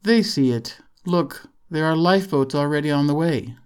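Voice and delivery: gently voiced American man; gentle. A narrator's reading. Tall American tells the worried local that help is coming, gentle. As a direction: reassure them gently, as an American. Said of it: "tall American man spoke gently".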